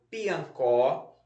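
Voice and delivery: "piancó" read evenly with a rising list tune; word dictation. Shown as a demonstration. Teacher repeats the word list for pupils, "piancó" in careful dictation. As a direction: dictate "piancó", end lifted. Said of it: "vamos lá repetir as palavras".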